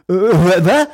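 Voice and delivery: loud, high startled Äh, äh, was; suddenly loud, high-pitched surprise; startled outburst. Retold or imitated. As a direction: jump at the news and blurt it out. Hotline man startled.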